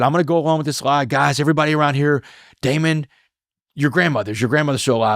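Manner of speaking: lightly voiced chaplain rallying the guys. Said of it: "He said".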